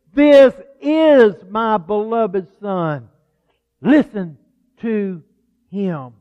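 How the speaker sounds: slow, solemn, spaced-out words; voice of God. Acted. Preacher voicing God from the cloud, slow and weighty. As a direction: speak with thunder and authority. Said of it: "with thunder, with authority".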